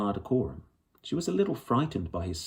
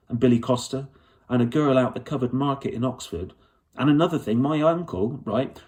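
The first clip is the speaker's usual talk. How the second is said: a hint of an eager girl, a bit higher and louder; lightly voiced young girl; 3 semitones higher, 4 dB louder than usual. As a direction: Lyra pouring out her story in a rush, stubborn. Lyra, young girl explaining eagerly.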